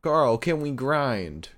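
quoting Gallows. Retold or imitated. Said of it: "he turns to Carl and he says".

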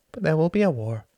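firm insistence. Acted. Tom insists, rising argument.

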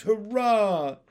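high, loud, little froglet hurrah; shouted cheer. A narrator's reading. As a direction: cheer it out jubilantly. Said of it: "shouted a fourth little voice".

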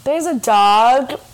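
drawn-out, disdainful mimicry; mock disgust. Teasing co-host as a dog hater, mock disgust. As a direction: imitate a friend turning up her nose. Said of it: "you're just like".

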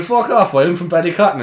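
high, loud excited disbelief; mock delighted surprise. Ballycotton man meeting a Cork neighbour abroad, excited. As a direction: play up the small-world shock.

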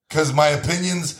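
loose Trump imitation, lightly voiced; horrible Trump. Trump arguing his site deserves to return, bad impression. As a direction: do a half-baked, self-important Trump. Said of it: "That's a horrible Trump".

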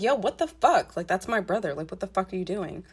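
sharp, loud outburst that settles by the end; mock-angry yell at the boyfriend; angry retort. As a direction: confront him over hurting my brother. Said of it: "And I was like".

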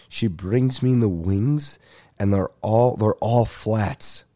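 slow, mock-anguished complaint; pained voice. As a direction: drag it out like it truly hurts. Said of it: "now you can hear the pain in my voice".

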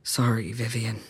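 low-key, subdued apology; guilty apology. Acted. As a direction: apologize as if crumbling inside.

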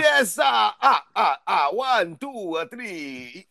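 mock Count Dracula. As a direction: mimic a hammy Count Dracula. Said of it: "That shit be like".

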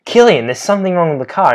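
fast, high, fretful; mock worried friend. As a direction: imitate him fussing quickly. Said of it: "this dude was like".

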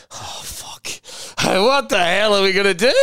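whispered dread rising into an alarmed question; mock panic. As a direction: imitate the other acts panicking. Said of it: "the other acts going".

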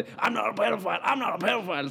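en antydning af den fulde ven, højere stemme, "I'm not a pedophile" gentaget; fuld ven. Retold or imitated. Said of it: "står min ven og siger". (den fulde ven over for politiet, let efterlignet, højere)

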